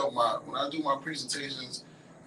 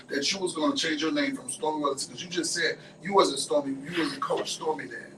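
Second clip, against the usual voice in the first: ordinary talk, nothing marked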